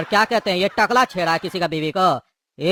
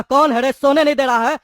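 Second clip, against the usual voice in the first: angry yell; 4 semitones higher, 3 dB louder than usual. Acted. Woken thug yells at noise.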